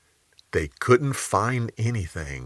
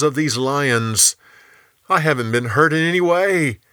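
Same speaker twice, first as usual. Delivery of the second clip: mild raised call up from below; yelling back; 5 semitones higher, 3 dB louder than usual. Acted. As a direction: call back a little higher, half-yelled. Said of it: "Daniel yelled back".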